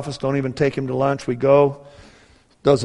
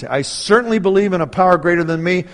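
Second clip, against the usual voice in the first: loud, high, astonished retelling of a surgeon; emphatic disclaimer; 5 semitones higher, 8 dB louder than usual. Retold or imitated. Surgeon walking away disclaims any credit, loudly emphatic. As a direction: hammer "nothing" in higher, louder voice.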